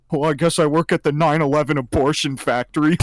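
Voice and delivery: punchline delivered on the edge of cracking up; holding back laughter. Retold or imitated. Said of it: "trying not to laugh".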